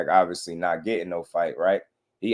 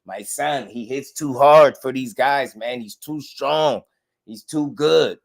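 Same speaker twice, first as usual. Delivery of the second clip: higher, proud boasting dad, lightly voiced; imitating bragging father; 4 semitones higher, 4 dB louder than usual. Mocking the fighter's father bragging about his son. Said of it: "his father was bragging about how great he is".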